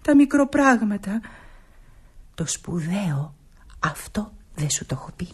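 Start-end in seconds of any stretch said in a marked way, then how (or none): 2.3-5.3 secretive. Acted. Nora hints at her big secret to Christina. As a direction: lower your voice, tease the secret.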